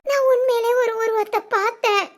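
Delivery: tearful, halting panic; frightened. Acted. Wife insists to husband she saw a figure on the bed, terrified. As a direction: insist through sobs, breaking off in fear. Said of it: "எனக்கு பயமா இருக்கு".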